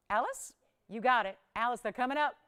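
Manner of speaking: flat robotic monotone. Real, not acted. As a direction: talk like a robot. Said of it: "Why am I talking like a robot?".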